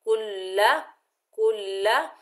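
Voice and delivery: कुल्ला with the ll held firm; doubled lam. Shown as a demonstration. Teacher showing the shadda in कुल्ला. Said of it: "मजबूती और जमाओ से पढ़ेंगे".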